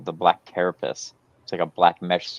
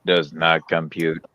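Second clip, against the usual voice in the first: slow flat robot voice; slower than usual. Pretend. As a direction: speak like a malfunctioning robot. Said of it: "now you gotta have a robotic voice".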